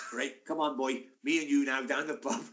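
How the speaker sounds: lightly attempted Swansea accent; Russ. Teammate coaxing his pal to the pub, rough Swansea accent. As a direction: have another go at South Wales. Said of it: "he's from Swansea".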